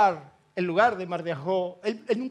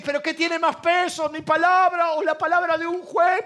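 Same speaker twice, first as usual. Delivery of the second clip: higher and louder, insistent; booming voice of God; 7 semitones higher, 5 dB louder than usual. Retold or imitated. God insisting to the doubting preacher, high and booming. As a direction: press the question like a thunderous rebuke.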